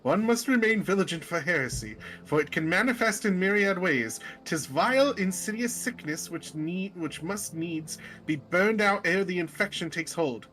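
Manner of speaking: pompous warning against heresy; zealous seer. Acted. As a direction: declaim it like a fanatical seer.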